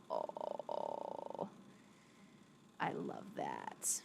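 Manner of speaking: whispered aww; soft breathy aside. Real, not acted. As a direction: drop to a hushed, touched whisper. Touched by a chat message.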